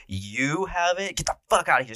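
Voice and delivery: high-pitched retold panic; freaking out. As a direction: imitate someone losing it, voice jumping up. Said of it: "starts freaking out, yelling, going crazy".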